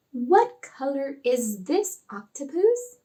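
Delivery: slow, lightly acted teacher question; unhurried, playful quiz question; teacher quizzing puppet. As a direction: ask a small child slowly, rising at the end.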